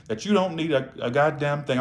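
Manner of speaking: "goddamn" thrown in for emphasis; emphatic stress. Real, not acted. Reader urging viewers to seem independent, emphatic. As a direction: lean on "goddamn" to drive it home. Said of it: "put that in there for emphasis".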